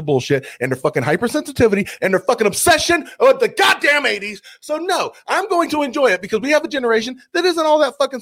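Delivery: building comic rant; escalating comedy rant. Real, not acted. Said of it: "I'm about to go into full rant mode".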